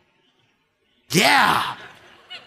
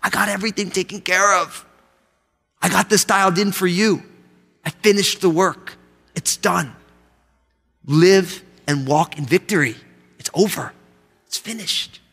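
God reassuring. Acted. Voicing God reassuring believers.

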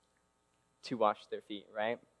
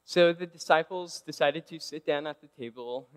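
ordinary talk

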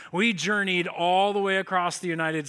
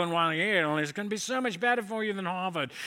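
put-on professor voice, altered timbre; professor impression. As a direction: imitate the name-dropping professor making his case. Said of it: "this is how he sounds".

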